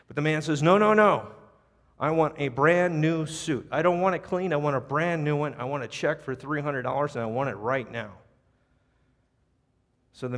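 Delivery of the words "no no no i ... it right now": angry demand. Retold or imitated. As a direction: refuse flatly and demand more. Irate customer refuses manager.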